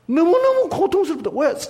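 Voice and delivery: high-pitched pained outcry; anguished. Acted. Preacher voicing God's pain of loving, anguished. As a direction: cry out high in torment.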